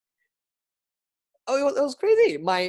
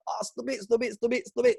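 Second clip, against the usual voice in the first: self-blame; 4 semitones higher than usual. Retold or imitated. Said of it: "how much self-blame".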